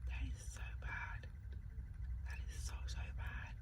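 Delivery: very soft, whispered aside; horrified whisper. Retold or imitated. Cringing to herself at being caught mimicking, horrified whisper. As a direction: whisper it to yourself in mock horror.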